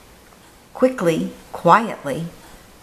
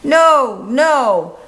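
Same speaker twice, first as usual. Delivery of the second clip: put-on higher, pleading child cry; little boy voice; 5 semitones higher than usual. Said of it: "cried the boy".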